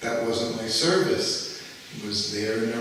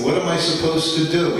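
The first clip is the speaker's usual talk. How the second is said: retold angry yell; 5 semitones higher, 5 dB louder than usual. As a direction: bark it out like a guru who was kept waiting. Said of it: "he's screaming at me".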